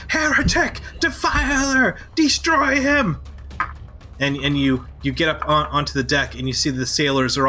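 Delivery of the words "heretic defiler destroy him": high, booming cry of condemnation; booming yell. Acted. Priestess yells at the fleeing heretic, booming. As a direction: call down judgment on the heretic.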